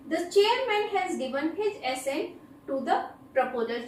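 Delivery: very slow, every word spaced out; slow dictation. Shown as a demonstration. Teacher reading an example sentence very slowly to students. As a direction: read it out slowly so students can write it down.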